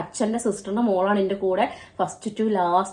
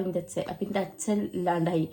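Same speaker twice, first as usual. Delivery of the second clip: choked grief; 3 semitones lower, 7 dB quieter than usual. Real, not acted. Grieving her father's death.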